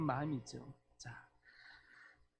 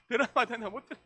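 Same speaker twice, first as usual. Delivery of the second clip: said through laughter, higher and louder; amused retelling; 6 semitones higher, 6 dB louder, faster than usual. Retold or imitated. Preacher mimicking wife missing words over drama, laughing. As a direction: retell the punchline while laughing.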